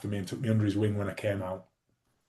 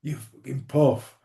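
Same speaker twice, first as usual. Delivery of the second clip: retold shout; 4 semitones higher, 4 dB louder, much slower than usual. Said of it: "someone shouted".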